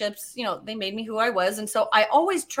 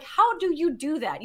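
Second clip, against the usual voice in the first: curious question, raised pitch; mildly amazed; 4 semitones higher than usual. Retold or imitated. Woman asking fiance about his underwater trick, mildly amazed. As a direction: ask with light wonder.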